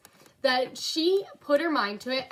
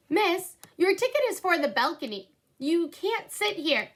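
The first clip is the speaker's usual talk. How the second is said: stern usher; 6 semitones higher than usual. Acted. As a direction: order her out of the seat. Usher ordering Viola to move.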